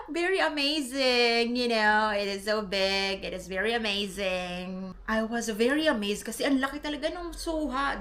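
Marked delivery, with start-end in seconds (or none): 0.1-5.0 retold amazement. Acts out amazement at big pomelo. (kunwaring manghang-mangha)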